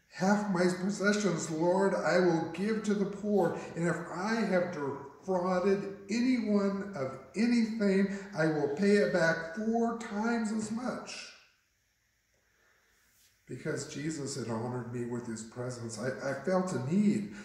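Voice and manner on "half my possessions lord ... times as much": raised, eager pledge; earnest vow. Acted. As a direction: declare a generous promise before the crowd. Breaks silence with a bold vow.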